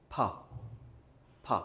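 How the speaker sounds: "फा" with a strong puff of air; stressed puff. Shown as a demonstration. Teacher demonstrates the aspirated p release. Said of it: "stress करके हम पढ़ते हैं".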